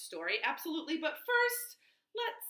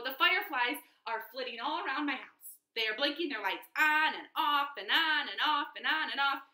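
whiny gecko; 2 semitones higher, 5 dB louder than usual. Acted.

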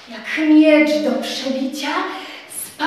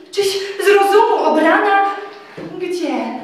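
Tadeusz protesting; 2 semitones higher than usual. Acted. Tadeusz refuses to take Telimena along, exasperated. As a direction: push her plan away in disbelief.

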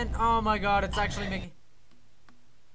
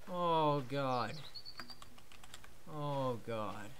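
drained murmur; 6 semitones lower, 11 dB quieter, slower than usual. Real, not acted. Recovering, drained.

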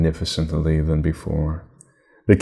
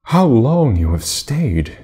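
slow, drawn-out sleepy yawn; drowsy sister-greeting through a yawn; 4 semitones higher, slower than usual. Acted. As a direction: stretch the words like just waking up.

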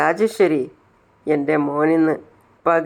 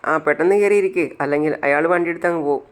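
mocking; faster than usual. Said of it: "അപ്പോൾ അനന്ത് കളിയാക്കാണ്".

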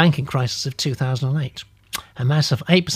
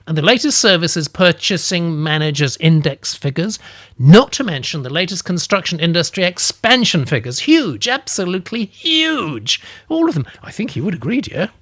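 eager and higher, slowing on huge; 4 semitones higher, 4 dB louder than usual. Acted. Narrator pressing economic figures on the old lady, eager. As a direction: pile on the figures with relish. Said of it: "I said".

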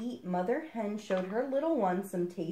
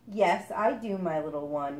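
tender mother duck. Acted. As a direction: soothe your sleepy child.

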